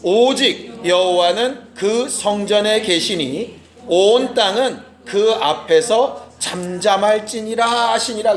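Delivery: slow, measured scripture reading aloud; leading the church in unison reading. Shown as a demonstration. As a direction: read each word together, slowly. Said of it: "시작".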